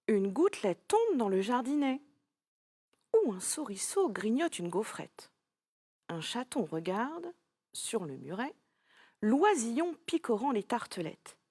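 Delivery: put-on lightly sung-song rhyme read to a child. Teacher reads her own nursery rhyme to the pupil, lilting. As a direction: read the little rhyme aloud, bouncing gently.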